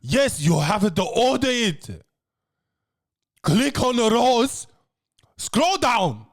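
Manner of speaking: patronising instructions; mock-impatient hostess; condescending. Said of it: "She's like".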